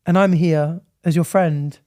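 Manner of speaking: a hint of a gentle, comforting Grim Reaper; lightly voiced kind Reaper. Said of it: "And Grim Reaper goes".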